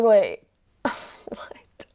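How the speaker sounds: loud wait, breaking into a breathy laugh; startled, giggly double-take; baffled laugh. Acted. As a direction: laugh through a confused reaction. Laughing reaction to surprising information.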